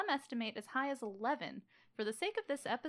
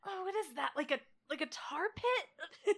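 disgusted Londoner; 6 semitones higher, 7 dB louder than usual. Retold or imitated.

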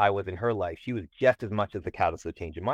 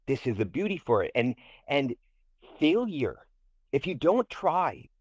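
passionate pep talk; 3 semitones higher than usual. Retold or imitated. Passionate speech to the student.

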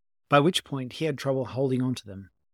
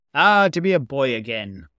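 fond; 2 semitones higher, 7 dB louder than usual. A narrator's reading. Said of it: "said a fond voice".

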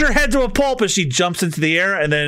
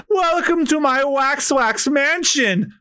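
drawling, high welcome; slow sly villain; 9 semitones higher, slower than usual. Acted. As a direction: lure them in slowly.

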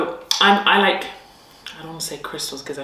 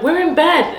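higher, louder call from upstairs; boys calling back; 11 semitones higher, 5 dB louder than usual. Retold or imitated. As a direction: shout back like kids in bed. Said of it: "they'd be like".

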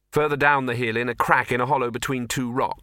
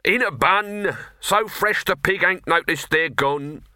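high, slow huckster calling out his pies; high drawn-out vendor's cry; street hawker cry; 7 semitones higher, slower than usual. Acted. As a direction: sell it like a market barker. Street pie seller calling wares.

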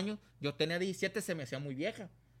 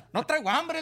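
"No traigo hambre" más agudo y fuerte, nervioso; asustado; 11 semitones higher, 8 dB louder than usual. Retold or imitated. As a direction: decir "No traigo hambre" con susto. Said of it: "yo estaba bien asustado". ("No traigo hambre" dicho asustado y agudo)

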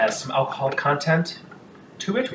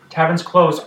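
firmer tavern's closed; 5 semitones higher, 7 dB louder than usual. Acted. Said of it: "People are like".

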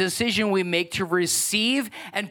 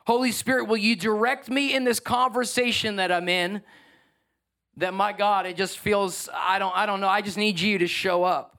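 sample prayer. Shown as a demonstration. Pastor voicing his own prayer before a conversation, pleading. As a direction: ask humbly for help. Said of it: "I literally pray that".

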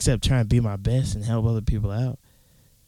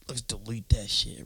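slow, unvoiced croak through a burp; burp-choked; 6 dB quieter than usual. Real, not acted. Podcaster quoting himself on deleting apps, voice lost to a burp. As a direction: push the words out slowly while burping. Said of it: "what the hell am I talking like this?".

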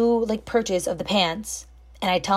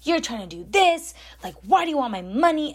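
higher-pitched mock indignation; mildly hammed-up angry complaint; mad customer; 5 semitones higher than usual. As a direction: imitate an accusing, put-out customer. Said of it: "he's getting mad at me".

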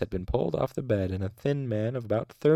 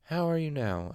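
gently asked, pitched higher; gentle; 7 semitones higher than usual. A narrator's reading. Master checking on a frightened patient, gently. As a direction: check on a fragile patient tenderly. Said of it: "Elodin asked gently".

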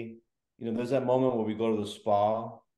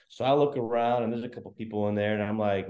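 ordinary talk, nothing marked

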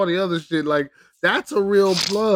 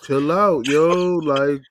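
slowed, lightly voiced dealer; a hint of the character's slow talk; Fez impression; slower than usual. Imitating the show's dealer telling Rabbit to chill, lightly put-on slow voice. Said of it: "he sounds exactly like this".

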